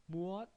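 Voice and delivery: 무엇 said in full as two syllables; full form. Shown as a demonstration. Teacher showing learners the irregular word, 무엇 in its full two-syllable form. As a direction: sound out both syllables of 무엇. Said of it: "Listen to the pronunciation".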